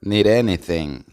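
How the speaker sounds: "need anything" linked, D softened to a tap; words joined. Shown as a demonstration. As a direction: run "need" into "anything" as one word. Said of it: "se unen y se pronuncia". ("need anything" unido, con la D suave como R)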